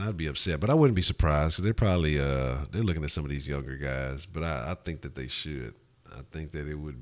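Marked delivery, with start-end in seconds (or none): none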